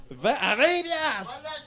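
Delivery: slow, laughing call of the new price; excited bid. Real, not acted. Excited auction bid jump. (annonce enthousiaste en riant)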